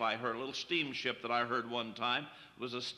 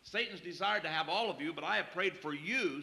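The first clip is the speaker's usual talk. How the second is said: a touch higher, pressing the contrast; stress on I; 4 semitones higher than usual. Shown as a demonstration. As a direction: lean on "I" in "but I have prayed for you". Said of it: "singular, Peter".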